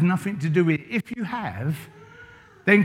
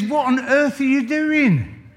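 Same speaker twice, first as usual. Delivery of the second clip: astonished father-in-law; 7 semitones higher, slower than usual. Retold or imitated. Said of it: "and he says".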